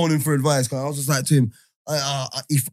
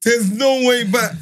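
slow drawn-out warning; 3 semitones higher, 5 dB louder, much slower than usual. Retold or imitated. Imitating friend's solemn warning.

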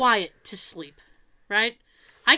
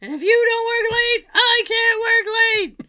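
mock bossy boast; 10 semitones higher, 6 dB louder than usual. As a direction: drag it out like a pompous manager. Mock office boss speech.

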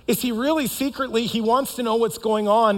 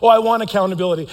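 mock eager claim; 6 dB louder, faster than usual. Most of us say we want it.

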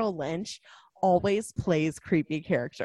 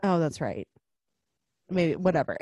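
usual speaking voice

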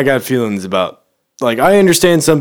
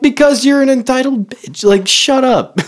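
higher, louder retold telling-off; mock yelling; 13 semitones higher, 4 dB louder than usual. Storyteller acting out yelling at Sherry, high and loud. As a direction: yell it high and scornful. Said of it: "I'm like".

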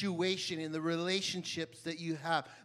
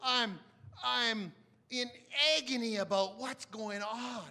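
groaning lament; 3 semitones higher, slower than usual. Retold or imitated. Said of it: "He's like".

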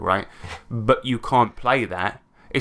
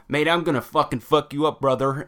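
mock American accent; 2 semitones higher than usual. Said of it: "he was talking in an American accent".

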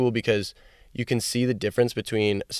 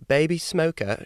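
higher-pitched mock British accent; 7 semitones higher, slower than usual. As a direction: say it with a playful put-on UK accent. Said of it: "she's from the U K".

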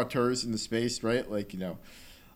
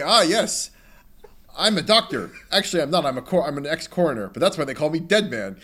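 a lightly voiced, hammed-up know-it-all, louder; pompous game character; 3 semitones higher, 5 dB louder than usual. Podcaster mocking the game's odd character, mildly hammed-up pompous voice. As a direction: puff up like a self-important game doctor. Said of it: "And it's like".

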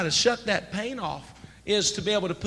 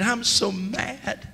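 mild mock prayer; 4 semitones higher, much slower than usual. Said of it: "That's how I talked to the Lord".

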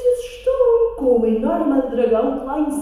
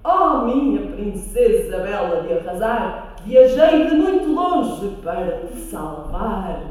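prince voice; 4 semitones lower, 4 dB louder than usual. Acted. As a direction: proclaim it like a gallant prince. Prince's voiced lines in story. (príncipe heroico)

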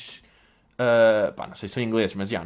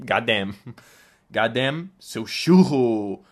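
mock slang talk; 5 semitones lower, much slower than usual. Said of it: "É que se falas, tipo".

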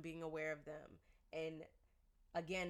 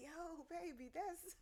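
mock scolding; 10 semitones higher, 5 dB quieter, much slower than usual. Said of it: "I'm like".

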